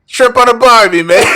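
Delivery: high, loud British attempt veering Australian; hammed-up, badly faked British accent. Friend asks to be rated, in a loud botched British accent. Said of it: "let me try a British one".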